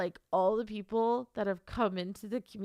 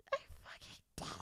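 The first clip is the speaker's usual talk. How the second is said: voiceless, much softer sob; crying with joy; 14 dB quieter, much faster than usual. Real, not acted. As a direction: let the words collapse into happy crying. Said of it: "Why can't I stop crying?".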